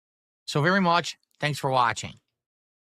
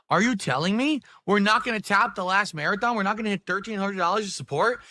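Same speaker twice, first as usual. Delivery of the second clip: mock outrage; 5 semitones higher than usual. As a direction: fake indignant rant, voice raised. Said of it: "I can't say it with a straight face".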